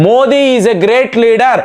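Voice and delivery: very slow, stretched-out imitation of Trump; lightly imitated Trump, words stretched slow; mock Trump praise. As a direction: drag out the flattery, lightly voiced Trump. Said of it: "Trump భారతీయులకు శుభాకాంక్షలు తెలుపుతున్నాడు".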